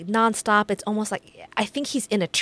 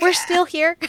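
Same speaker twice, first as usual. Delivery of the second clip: higher, louder worn-out repeat; mock weary echo; 8 semitones higher, 4 dB louder than usual. Guest at endless funeral, mock weariness. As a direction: drag it out tiredly. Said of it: "You're like".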